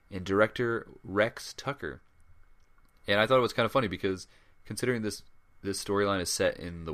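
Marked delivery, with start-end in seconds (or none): 0.1-2.0 slow, hammed-up American Western accent; mock Southern accent. Podcast host announcing the director, in a mock Southern accent. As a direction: drawl the name out in a jokey Southern accent. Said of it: "my accent there was just a little bit better".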